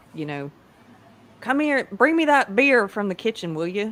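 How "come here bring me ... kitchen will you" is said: bad, put-on rural backcountry Southern US accent. Imitating how the character would not talk: Frank Underwood with a poor Southern accent. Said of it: "talking like".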